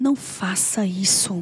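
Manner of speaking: very quiet, hushed, low-pitched, under the breath. Retelling own words, said low so a child won't hear: very low voice. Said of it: "em voz bem baixa pra criança não ouvir".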